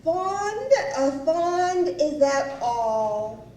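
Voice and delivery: high-pitched, icy echo of his word; coldly affronted, drawing out the end. Retold or imitated. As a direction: mimic a wife's frosty disbelief. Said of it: "very icily".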